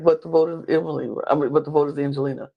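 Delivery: quick, offhand brush-off; dismissive. Retold or imitated. Ozzy waving away Emily's warning, mildly dismissive. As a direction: rattle it off as if her worry hardly matters. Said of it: "Very dismissive of the fact".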